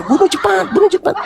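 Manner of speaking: high, hurried devil urging; devil's real intent. Acted. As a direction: urge it secretly in a high little voice. (bisikan desakan iblis, nada tinggi)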